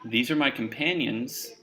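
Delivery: slow, soft tipsy introduction; measured, slightly drunken politeness; drunken composure. Acted. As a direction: drunk but trying to sound composed. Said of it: "still drunkenly".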